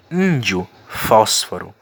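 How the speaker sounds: "Índio" and "fósforo" each hit on the first syllable; stressed accented syllables. Shown as a demonstration. Teacher listing accent examples for students, first syllables stressed in "Índio, fósforo". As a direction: punch "Ín" and an open "fós", word by word. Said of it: "passa a ser com som aberto".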